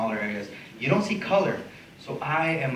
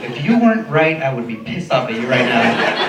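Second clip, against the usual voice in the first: laughing through it; 3 semitones higher, 9 dB louder, slower than usual. Real, not acted. Comic cracking up mid-story.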